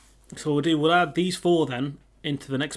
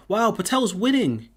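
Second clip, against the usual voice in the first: higher and louder burst of real surprise; surprised; 6 semitones higher, 6 dB louder than usual. Real, not acted. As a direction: react to the poll result with surprise. Poll result comes in unexpectedly.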